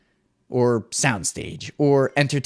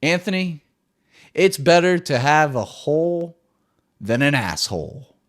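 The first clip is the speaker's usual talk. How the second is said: quoting mentor; 3 semitones higher than usual. Retold or imitated. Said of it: "my best and favorite mentor always said".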